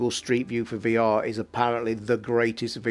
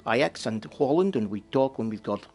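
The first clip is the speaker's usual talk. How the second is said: Dutch accent. Shown as a demonstration. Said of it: "doing my Dutch accent".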